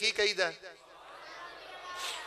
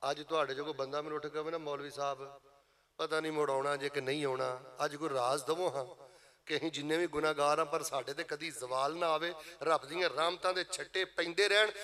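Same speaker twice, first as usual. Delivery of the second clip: much softer, lower, intimate voice; hushed plea; 4 semitones lower, 9 dB quieter than usual. Acted. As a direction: drop to a hushed, humble plea. Quiet imagined plea of listener.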